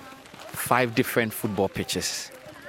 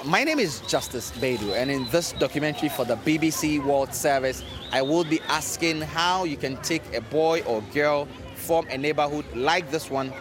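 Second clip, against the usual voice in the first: measured, emphatic radio presenter read; scripted radio documentary voice; documentary narration; 3 semitones higher than usual. Acted. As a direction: introduce the documentary with deliberate, lifted emphasis. Scripted documentary intro over music.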